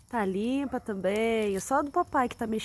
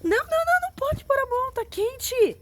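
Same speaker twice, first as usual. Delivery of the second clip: urgent warning; 14 semitones higher, 5 dB louder than usual. Real, not acted. Mother stops child touching hot food.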